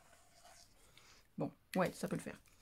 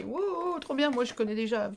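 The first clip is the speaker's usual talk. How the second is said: a light mock of viewers saying wow, we already know it; mock blasé viewers. Teasing her viewers who already know the trick, mild mock blasé voice. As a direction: tease the know-it-alls with a touch of sarcasm. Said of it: "faites pas les".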